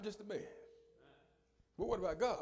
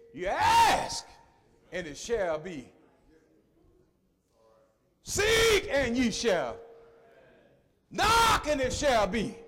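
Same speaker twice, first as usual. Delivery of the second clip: You, Seek and Knock shouted much higher; preached scripture; 7 semitones higher, 10 dB louder, much slower than usual. Acted. Preacher quoting scripture to the church, sharp high hits. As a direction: hit each opening word high and loud. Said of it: "The scripture told me".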